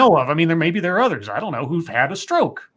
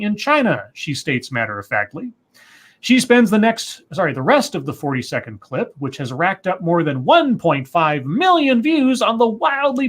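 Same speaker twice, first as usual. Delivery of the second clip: measured, emphatic article reading; reading a news report aloud; 2 semitones higher than usual. Acted. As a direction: read it out like a news story, key words punched. Reads a news story aloud.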